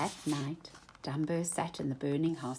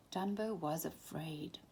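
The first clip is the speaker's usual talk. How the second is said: hushed fearful whisper; whispered narration, afraid; 8 dB quieter than usual. A narrator's reading. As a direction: whisper it like a secret fear. Fearful moment in story.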